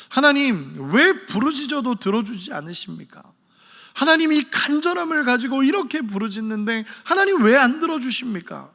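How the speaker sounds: protesting to God. Acted. Preacher voicing Habakkuk's complaint before God, mildly acted protest. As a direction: press the complaint as if demanding an answer. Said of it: "하나님 앞에 가서 막 따집니다".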